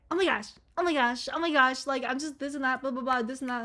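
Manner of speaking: a hint of mock panic; overly emotional person. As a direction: imitate someone getting worked up over everything. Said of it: "like, the emotional person".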